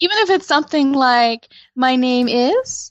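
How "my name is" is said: questioning upward lift on the word is. Demonstrating how some speakers lift sentence ends, rising at sentence end. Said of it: "they raise the end of their voice".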